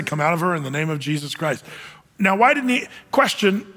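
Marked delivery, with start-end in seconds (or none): 0.0-1.6 calm, lower, unhurried command. Retold or imitated. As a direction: say it simply, no theatrics. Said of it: "all you have to say".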